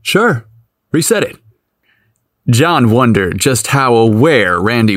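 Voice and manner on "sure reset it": mischievous. A narrator's reading. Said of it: "John smiled mischievously".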